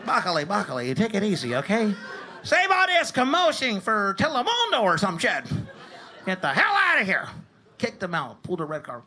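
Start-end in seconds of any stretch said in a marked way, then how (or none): 0.0-7.3 referee shouting. Retold or imitated. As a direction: bellow the warning like a ref taking control. Ref kicking dad out.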